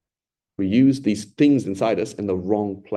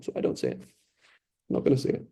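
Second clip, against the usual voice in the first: breathy hushed whisper, barely there; 7 dB quieter than usual. Real, not acted. Preacher to congregation, avoiding the holy name, whispered. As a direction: drop to a whisper so the name isn't spoken aloud.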